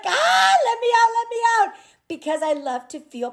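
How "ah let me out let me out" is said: high, fast pleading wail; stir-crazy mom crying to escape the house; mock desperate cry. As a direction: beg to be let out, hammed-up. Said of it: "I'm like".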